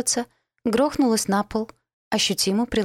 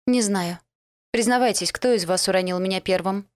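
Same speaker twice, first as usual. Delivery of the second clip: demanding. Acted. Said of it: "заявила требовательно".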